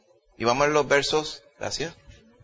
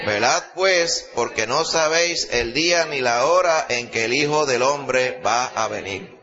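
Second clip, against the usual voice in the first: slow, raised, ringing Bible reading; fervent scripture reading; slower than usual. Acted. Preacher reading the parable to the congregation, slow and ringing. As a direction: proclaim each verse to the whole church.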